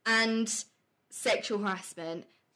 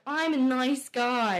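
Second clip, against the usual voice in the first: mock nice guy; 2 semitones higher, 5 dB louder, slower than usual. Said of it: "they're like".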